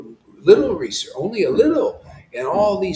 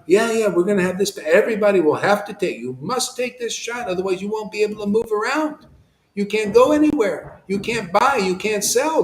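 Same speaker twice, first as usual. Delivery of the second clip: quick, raised mocking bureaucrat voice; mocking the officials at the meeting, higher and quicker; 5 semitones higher, 3 dB louder than usual. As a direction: parody a smug official laying down rules, fast. Mocking officials announcing mandates.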